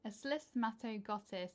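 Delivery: slismatoglottis in a British accent, fumbled; British accent try. Shown as a demonstration. Trying the plant name again in a British accent. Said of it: "I can't even say it in a British accent".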